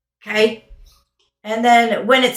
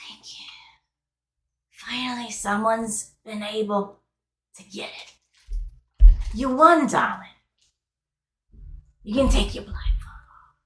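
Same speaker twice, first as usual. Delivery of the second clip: soft doll voice; 3 dB quieter than usual. Acted. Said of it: "you hear her go".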